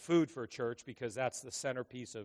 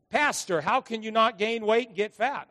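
mock question; 7 semitones higher, 8 dB louder than usual. Mimicking congregants' question.

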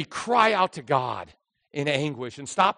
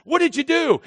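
questioning God; 11 semitones higher, 6 dB louder than usual. Pretend. God voiced questioning Adam.

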